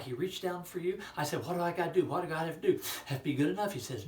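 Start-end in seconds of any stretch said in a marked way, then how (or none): 1.4-3.7 high, loud pleading questions; eager child. Retold or imitated. Boy begging to know what to do, high and loud. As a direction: press urgently for an answer.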